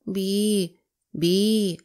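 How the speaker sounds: lightly voiced squeaky toad beeping; a small dazed squeak, like a horn. A narrator's reading. Toad squeaking to himself in the road, mild beep. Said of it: "попискував".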